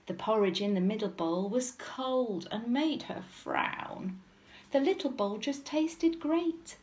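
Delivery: measured storybook reading; lilting narration for small children; children's story narration. A narrator's reading. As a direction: tell it as a picture-book story. Reads story aloud to children.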